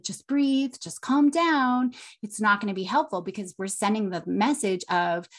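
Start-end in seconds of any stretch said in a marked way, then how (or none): 0.0-1.9 higher-pitched, drawn-out instruction, lightly mocked; put-on, unhelpful calming advice; quoted soothing advice. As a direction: mimic someone telling a child to calm down. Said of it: "That's why things like".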